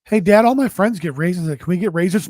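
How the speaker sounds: lightly voiced pleading kid; kid asking dad. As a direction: ask like a little kid begging dad. Son begging dad for raisins.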